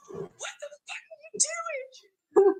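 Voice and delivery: very soft, whispery mock outburst; barely voiced retold exasperation; hushed swearing. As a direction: mouth the curse under your breath. Retelling her first cuss at husband.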